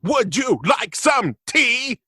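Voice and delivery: high, slow, loud Dalek cry; hammed-up Dalek voice; mock Dalek shout. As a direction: shout the tea offer like a Dalek. Dalek line as joke.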